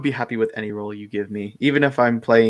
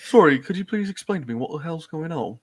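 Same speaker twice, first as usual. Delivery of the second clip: Connor impression; 3 semitones higher than usual. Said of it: "That's my Connor impression".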